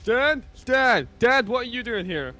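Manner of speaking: high, loud mock-dramatic calls; acted cartoon dialogue. Acting father and son in South Park episode, high dramatic voices. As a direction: play it as an urgent cartoon scene.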